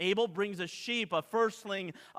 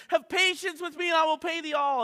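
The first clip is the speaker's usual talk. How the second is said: much higher, begging; pleading debtor; 9 semitones higher, 5 dB louder than usual. Acted. Fellow servant begging the creditor for patience, higher pleading. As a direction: plead for mercy at his feet.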